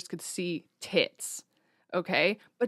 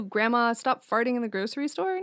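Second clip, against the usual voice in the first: mock scolding; 4 semitones higher than usual. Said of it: "what do you do".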